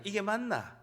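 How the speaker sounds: Gyeongsang-accented question; Gyeongsang dialect. Shown as a demonstration. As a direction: say it with a Gyeongsang lilt. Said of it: "경상도에 가능해요".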